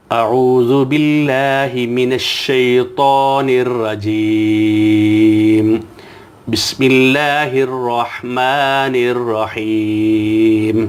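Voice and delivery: slow chanted tilawat; تلاوت کا انداز; Quranic recitation. Shown as a demonstration. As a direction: recite it slow and melodic, drawing out each vowel. Recites taawwuz and bismillah melodically.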